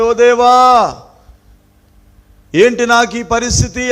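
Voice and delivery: loud, high cry up to God; acted outcry. Preacher voicing David's plea over his plight, acted outcry. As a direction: call out in anguish, preacher-style. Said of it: "అని కేక వేస్తున్నాడు".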